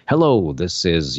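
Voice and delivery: slow, lightly imitated news anchor voice; Oprah Winfrey. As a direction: lightly put on a measured anchorwoman delivery. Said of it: "news anchor woman voice".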